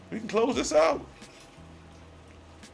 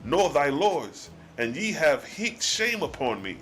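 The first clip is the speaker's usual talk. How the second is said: solemn scripture reading; 3 semitones lower than usual. Acted. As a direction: read the old words like a solemn sermon. Reads God's archaic reply.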